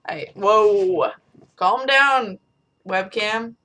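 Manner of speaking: sudden startled whoa. Real, not acted. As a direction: react as if startled. Startled by webcam.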